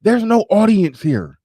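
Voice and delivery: mock exasperated host; host pleading with guest, high disbelief; incredulous self.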